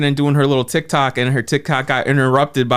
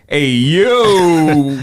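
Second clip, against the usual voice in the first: calling out; 4 dB louder than usual. Retold or imitated. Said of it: "You say".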